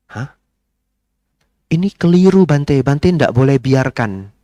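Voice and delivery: lightly imitating a surprised protest; startled protest. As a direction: insist he is wrong. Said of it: "Saya jawab begini".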